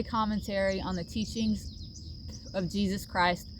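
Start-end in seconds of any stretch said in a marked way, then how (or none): 2.5-3.5 hair in mouth. Real, not acted. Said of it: "Sorry, I have hair in my mouth".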